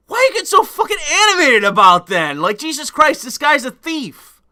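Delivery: high, laughing incredulity; laughing disbelief. Retold or imitated. Guard asking why the EMT got so worked up, laughing in disbelief. Retelling his own baffled reply.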